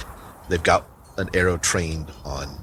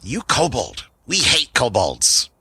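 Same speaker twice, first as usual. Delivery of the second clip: lightly voiced indignant goblin, pitched up; hostile goblin; 4 semitones higher, slower than usual. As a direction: spit mild goblin contempt, dragging the last words. Goblin accuses the player.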